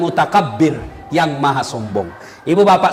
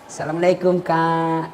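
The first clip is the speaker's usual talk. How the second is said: sweet polite greeting; 4 semitones lower, 6 dB quieter than usual. Retold or imitated. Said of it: "sopan kalau sama cowoknya".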